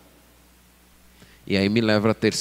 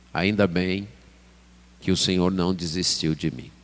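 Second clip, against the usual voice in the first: softer, lower grateful prayer; subdued thanksgiving; 5 semitones lower, 5 dB quieter than usual. Acted. Preacher voices a disciplined believer thanking the Lord, humble and subdued. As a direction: give thanks humbly, low and soft.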